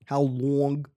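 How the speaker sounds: Southern drawl on long; southern accent. Shown as a demonstration. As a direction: stretch the vowels like a Southerner. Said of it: "I was trying to do a southern shit".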